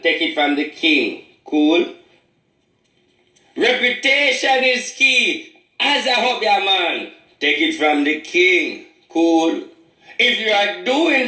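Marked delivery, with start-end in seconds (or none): 3.6-7.1 higher and slower, with a laugh on "Reputation is key"; slower laughing retake. Shown as a demonstration. Obeah man retaking his slogan for the camera, slow and laughing. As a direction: redo the slogan slowly, chuckling through it.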